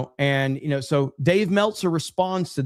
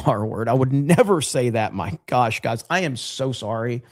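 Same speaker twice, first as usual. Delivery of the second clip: mock contrition; 2 semitones lower than usual. Streamer apologizing to chat for a slip, mock contrite. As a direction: apologize with exaggerated gravity, tongue in cheek.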